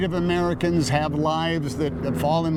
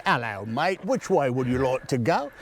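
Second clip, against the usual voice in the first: mock British. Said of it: "me and John Hamm going over and say".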